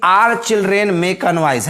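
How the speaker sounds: put-on "Are children make a noise" read very slowly; teacher dictating the blank sentence; slow dictation. Shown as a demonstration. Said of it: "यहाँ पर हम बता रहे हैं कि".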